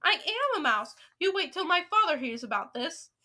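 high, loud, outraged realisation; shocked, indignant cry. A narrator's reading. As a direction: cry out and threaten to tell. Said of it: "he cried".

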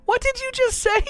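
high-pitched mock astonishment; retold shock. Parent reacting to a kid's remark, mock shocked. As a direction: shoot it up in comic disbelief.

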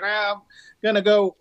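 half-hearted go at another driver's voice; Timmy Cameron impression. Podcast guest mimics a racer from a video, badly faked voice. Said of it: "the worst Timmy Cameron voice ever".

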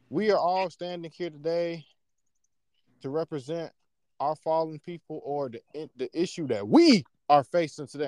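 hint of a speechmaking politician, with pauses; measured phrases, punching a loud WE; politician's speech. Politician drawing listeners into the issue, measured oratory. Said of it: "think how politicians do it".

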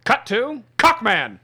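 lightly voiced newsreel announcer; a hint of old newsreel narration; old-timey announcer. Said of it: "like an old-timey announcer".

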